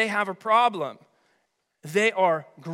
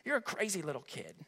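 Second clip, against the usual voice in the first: fond chiding; 2 semitones lower, 11 dB quieter, faster than usual. Acted. God fondly chiding His child.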